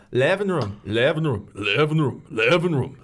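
repeating living room to find an Irish accent; warming up a lightly Irish voice. Shown as a demonstration. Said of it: "Let me get into the voice".

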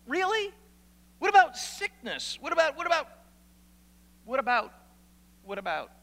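high, pleading "what about" questions; incredulous objections. Acted. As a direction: voice the doubter's protests, climbing high. Mock objections from the congregation.

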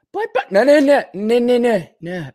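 high, stammered protest; frantic objection. Retold or imitated. Man objecting to moved belongings, high frantic protest. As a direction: pitch leaping up, repeated refusals tumbling out.

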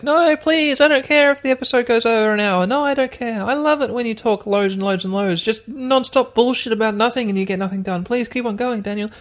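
hammed-up fan begging him to go on; mock pleading listener. Listener begging Daniel to keep going, mock pleading. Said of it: "You're like".

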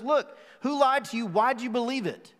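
a touch of pointed challenge, lifted on Look; calling them out. Retold or imitated. Paul calling out the Galatian church, pointed. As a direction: mildly confront them. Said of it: "He's trying to call them out".

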